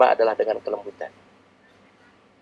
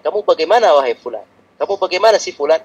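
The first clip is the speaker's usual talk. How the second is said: higher, sharper scolding questions; mock angry scolding; 5 semitones higher than usual. Shown as a demonstration. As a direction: scold the child like an angry parent. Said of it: "Kalau marah-marah pasti". (omelan ayah yang marah)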